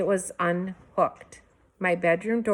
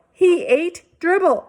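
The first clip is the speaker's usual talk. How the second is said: much higher, louder, slow insistence; insisting shout; 12 semitones higher, 8 dB louder than usual. A narrator's reading. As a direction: insist at full voice. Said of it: "I insisted".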